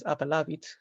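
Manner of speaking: "appellavit" with the stress on the long "la". Shown as a demonstration. Teacher showing Ecclesiastical Latin stress, accent on "la" in "appellavit". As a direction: stress the second-to-last syllable of "appellavit". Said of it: "You can see the stress is on that A".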